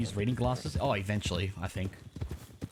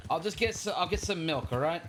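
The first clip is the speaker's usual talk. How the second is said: raspy voice; 6 semitones higher than usual. Acted. Defending the milk choice.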